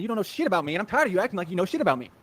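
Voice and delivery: a mild mock tough-guy growl, kept in character; put-on tough voice. Shown as a demonstration. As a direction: play the hard man lightly. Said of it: "change it to be like I would be if I was in prison".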